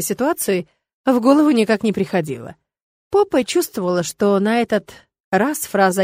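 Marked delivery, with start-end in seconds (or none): none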